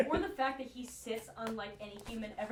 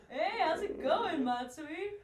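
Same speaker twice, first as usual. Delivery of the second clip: put-on slow, high, loose drunken greeting; college kid drunk voice; 6 semitones higher, much slower than usual. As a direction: play a tipsy college kid calling a buddy. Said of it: "college kid drunk voice".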